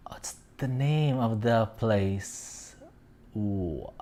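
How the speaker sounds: unvoiced, slow whisper of "what's the name of the place?"; slow whisper while digging for the name; whisper to self. Real, not acted. Vlogger stuck on a French city name, whispering.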